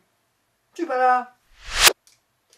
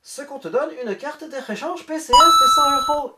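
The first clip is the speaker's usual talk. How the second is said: a put-on German accent, pushed louder toward the end; 4 semitones higher, 5 dB louder than usual. Scammer's message to the YouTuber, read in a mock German accent. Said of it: "j'ai repris mon accent allemand".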